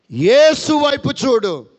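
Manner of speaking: slow, loud climax line; emphatic command. Acted. Pastor urging the hurting to look to Jesus, slow loud command. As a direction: land it as the sermon's peak.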